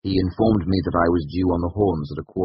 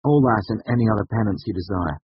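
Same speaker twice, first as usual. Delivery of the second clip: higher, louder, hopeful sincerity; earnest; 6 semitones higher, 5 dB louder than usual. A narrator's reading. Student offering any penance to the master, eagerly earnest. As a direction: pledge yourself with rising hope. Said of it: "I said earnestly".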